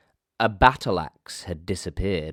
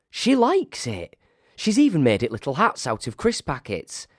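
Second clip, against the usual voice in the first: high staff voice; 7 semitones higher than usual. Acted. A staffer at the secret meeting, high and incredulous. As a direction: complain in disbelief, pitched up. Staff member grumbles about Emily.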